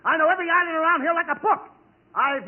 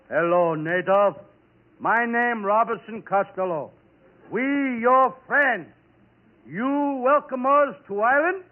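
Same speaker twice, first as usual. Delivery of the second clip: lower, slow, halting broken English; pidgin talk to native; 6 semitones lower, slower than usual. Acted. Castaway greeting the native slowly in broken English. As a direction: speak slowly in broken words to a stranger.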